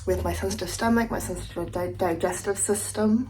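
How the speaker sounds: talking around a retainer; slightly lisped, retainer in mouth; wearing a retainer. Real, not acted. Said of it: "I can't talk with my retainer in".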